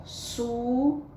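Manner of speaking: SUZANA slowly as SU, ZA, NA; three separated syllables in SUZANA. Shown as a demonstration. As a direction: stretch each syllable of SUZANA. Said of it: "e três sílabas".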